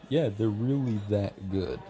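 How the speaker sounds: laughing through it, slowed; giggle, then gush about the cakes. Acted. A regular laughing as she swears the cakes are good.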